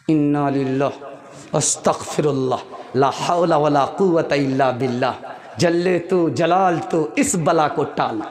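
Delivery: low muttered prayers, mock dread; disapproving daughter. Daughter asked about her mother-in-law, mock-pious disapproval. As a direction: pray against a pest, comically understated. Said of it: "तुम्हारी आवाज़ से पता चल गया".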